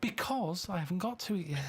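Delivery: a whisper with no voice; whispered aside. Real, not acted. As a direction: breathe it as a secret aside. Laughing aside to hosts.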